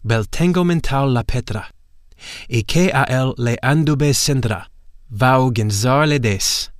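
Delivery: lightly voiced demonic chant; dark incantation. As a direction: intone the spell as the possessing power of darkness. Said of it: "those dark words with which the power of darkness".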